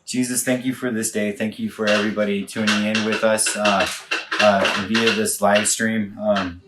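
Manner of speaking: earnest spoken prayer; closing prayer. Real, not acted. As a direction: pray to close the stream.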